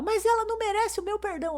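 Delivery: a hint of a stubborn little girl; imitating the daughter. Mother voices upset daughter. (imitando a filha teimosa, voz mais aguda)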